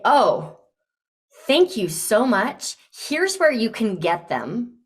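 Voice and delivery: eager, pushing the invite with real enthusiasm; passionate, insistent. Shown as a demonstration. Coach showing a client how to offer with passion. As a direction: gush about it like you truly want them to go. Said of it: "I would be passionate about this invitation, almost insistent".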